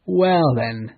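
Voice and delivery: boastful buildup; cry out. Acted. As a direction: announce it boldly. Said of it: "he cried".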